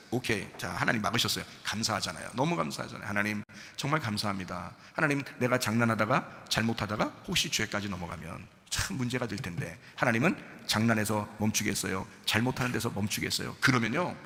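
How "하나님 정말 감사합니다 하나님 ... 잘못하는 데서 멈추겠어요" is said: low, soft personal prayer; thankful prayer. Acted. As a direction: speak humbly to God, hushed. Models a thankful prayer to God. (낮고 조용한 감사 기도)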